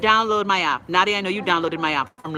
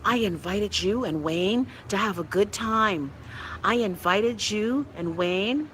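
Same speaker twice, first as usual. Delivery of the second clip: friend's reproach; slower than usual. Retold or imitated. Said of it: "she was like".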